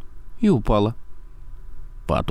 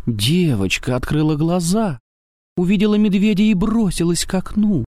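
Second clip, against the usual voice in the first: fast high alarm; 11 semitones higher than usual. A narrator's reading. Girl wakes in fright.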